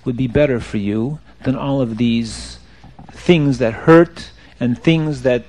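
low, soft, tactful reassurance; gentle counsel. Acted. Baal Shem Tov consoles the penitent, gentle counsel. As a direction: ease him toward another way.

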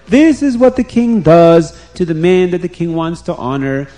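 loud herald's proclamation, repeated; calling out again. Retold or imitated. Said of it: "he will call out to everybody".

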